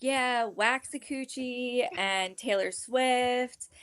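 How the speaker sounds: slow, dead-serious retelling. Retold or imitated. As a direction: imitate your own earnest, measured mistake. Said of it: "I said it so dead serious".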